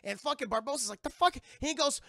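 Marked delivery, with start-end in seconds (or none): 1.0-1.4 very high, loud "The fuck?"; outraged surprise. Acted. Barbossa finding the blood didn't work, a high loud blurt. Barbossa learns the curse held.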